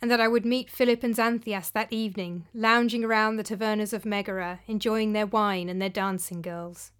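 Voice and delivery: measured, dramatic storyteller's delivery; story narration. A narrator's reading. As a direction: read it out as a first-person tale, pausing between phrases. Narrates her short story.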